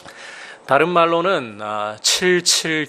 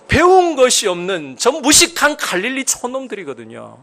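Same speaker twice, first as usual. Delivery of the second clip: preaching; 6 semitones higher, 5 dB louder than usual. Acted.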